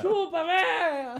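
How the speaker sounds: loud high taunt with laughter; laughing mock shout. Him taunting the old woman, laughing shout. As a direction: taunt her through laughs. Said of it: "Eu falei".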